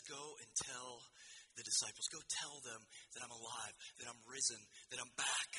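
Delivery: soft, low, measured instruction; gentle Jesus. Acted. Risen Jesus sends Mary to the disciples, gentle.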